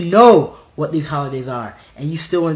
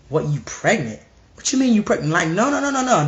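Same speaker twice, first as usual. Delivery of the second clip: shocked parent, mock.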